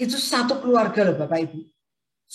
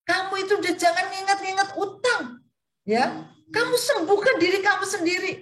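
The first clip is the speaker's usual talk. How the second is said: coaxing friend; 11 semitones higher than usual. Retold or imitated. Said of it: "Saya masih berkata".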